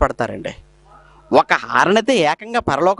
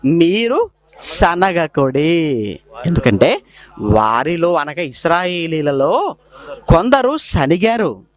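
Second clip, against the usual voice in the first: slow scripture reading; much slower than usual. Real, not acted. Reading verse aloud.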